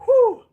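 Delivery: high, sharp exhale of effort; real winded "whew"; tired whew. Real, not acted. Swordsman worn out from practice cuts, tired whew. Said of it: "But I am fatigued".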